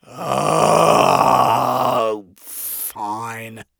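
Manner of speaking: groaning. Acted. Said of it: "I groan".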